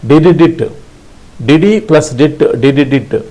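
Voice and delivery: did dit chanted as quick beeps; rhythmic did dit. Shown as a demonstration. Morse teacher drilling the letter S. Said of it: "S like".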